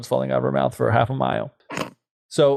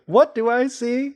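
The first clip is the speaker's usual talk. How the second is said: much higher, slow aghast cry; shocked mother; 11 semitones higher, slower than usual. Acted. Mother aghast at her daughter, much higher. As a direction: recoil in horror. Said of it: "continues mother bit".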